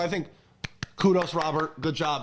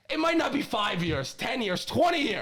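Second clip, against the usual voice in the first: impassioned; 5 semitones higher than usual. Real, not acted. Impassioned vow about Super Bowl.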